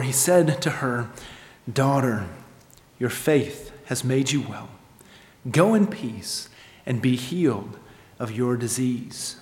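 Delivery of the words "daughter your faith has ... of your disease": gentle, softened voice with pauses; unhurried, soothing pronouncement; tender blessing. Acted. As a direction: speak softly, as to a daughter. Jesus blesses the healed woman.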